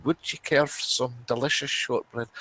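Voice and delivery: lightly voiced sweet Scottish lass; sing-song offer of shortbread; shortbread tin lass.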